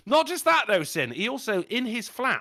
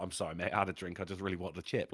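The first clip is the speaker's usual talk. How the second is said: lower, softer, sorry mumble; sheepish apology; 8 semitones lower, 9 dB quieter, faster than usual. Retold or imitated. Drunk mate apologising for the punch, low and sheepish. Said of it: "He's like".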